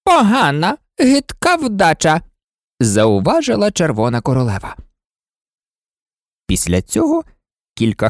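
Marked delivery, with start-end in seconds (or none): 0.0-2.2 disdainful queen. Acted. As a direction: spit out the verdict. Red Queen condemning Alice.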